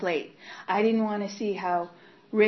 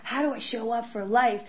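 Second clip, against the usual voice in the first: panicked pleading; 4 semitones higher than usual. Retold or imitated. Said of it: "and I'm like".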